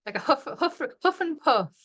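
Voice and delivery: light breathy huffs on huff and puff; a lightly hammed-up huff and puff; mock huffing. Shown as a demonstration. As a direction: puff the words out playfully. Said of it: "I'm a yawner and a puffer now".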